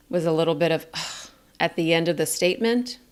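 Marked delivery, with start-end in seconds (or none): 0.9-1.3 soft breathy "ugh" exhale; downward breath sigh. Shown as a demonstration. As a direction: let the breath drop out quietly. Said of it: "notice my breath energy".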